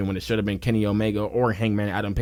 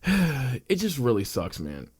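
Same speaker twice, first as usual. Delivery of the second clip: weary sigh; 3 semitones higher, much slower than usual. Real, not acted. Venting frustration, slow sigh.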